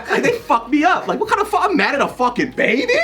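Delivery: high, loud, exasperated comic rant; retold angry rant. Parent mad at himself over a baby, retold furious rant. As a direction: rant at yourself, climbing in pitch. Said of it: "I was just ranting to myself".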